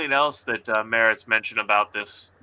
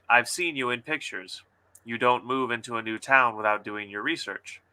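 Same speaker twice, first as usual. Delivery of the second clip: steady, even story narration; story reading. Acted. Author reading her diner scene aloud to guests. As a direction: read the scene out calmly.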